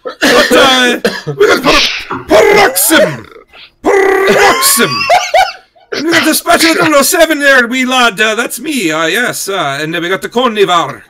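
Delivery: big, loud, hammed-up Irish lilt; high-pitched comic Irish, drifting off course; Irish accent. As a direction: belt out the names in mock Irish. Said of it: "wait, wait, wait, in an Irish voice".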